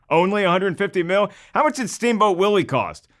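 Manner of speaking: laughing, rising incredulous question; mock disbelief. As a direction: scoff at how cheap it was. Mock disbelief at cheap budget.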